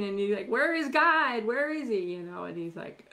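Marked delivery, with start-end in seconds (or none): 0.5-2.0 loud, high cry of despair; anguished cry. Acted. A sister crying out when Jesus does not come, loud and high. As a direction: cry out to the sky, abandoned.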